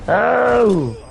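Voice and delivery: high drawn-out yelp. Real, not acted. Player reacting in the game, high yelp. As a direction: cry out high on a single vowel. Cry during game play.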